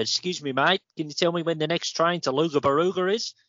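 light Aussie twang on the stranger; Australian accent. Retold or imitated. Aussie bloke at Guildford station asking for a train, light Australian accent. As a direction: imitate an Aussie asking directions. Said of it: "That was a really good accent as well".

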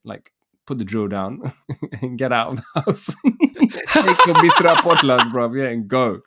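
laughing through a mock brush-off; laughing dismissal. Customer laughing as he sends the handyman away. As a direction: laugh while telling him to leave. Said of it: "And then I was like".

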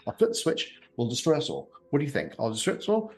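high, swinging between calm and outburst; unhinged rant. Acted. Razzia rants about destroying everyone, unhinged. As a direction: lurch between threat and panic.

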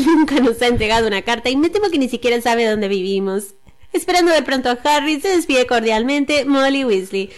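lightly put-on neutral Latin American Spanish; a hint of Caribbean-tinged neutral Spanish. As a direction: read the letter in dubbing-style neutral Spanish. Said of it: "Te salió el final medio neutro".

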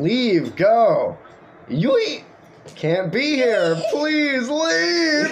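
high laughing mock scream. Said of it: "hearing a scream".

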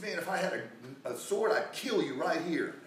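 mildly angry retold threat; mad. Balaam to his donkey that stopped, mildly mad. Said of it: "he was mad at that old donkey".

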